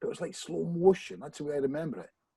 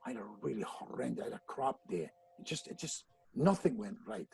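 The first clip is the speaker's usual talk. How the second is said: much softer, half-whispered admission; sheepish quiet confession; 5 semitones lower, 10 dB quieter than usual. Retold or imitated. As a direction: mumble the bad news to a friend. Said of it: "So I said".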